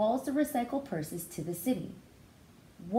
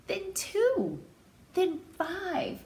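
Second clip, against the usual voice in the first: rising count; 11 semitones higher, much slower than usual. A narrator's reading. Counting helpers in story.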